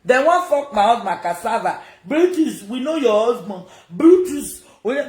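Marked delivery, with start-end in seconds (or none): 2.0-5.1 high, loud sing-song jeer; mocking quote. Mocking the women who want her husband, high sing-song jeer. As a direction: mimic the women's taunt. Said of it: "mocking women's chant".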